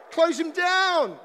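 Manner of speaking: slow loud shout at the players. Acted. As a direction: drag out the shout. Shouting instructions at TV.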